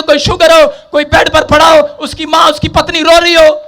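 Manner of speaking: high, driving sermon delivery; full-force preaching. Acted. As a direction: preach it out in an unrelenting stream.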